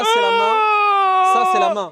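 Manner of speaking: squeaky high masseuse voice; high put-on voice. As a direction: soothe him in a high put-on voice.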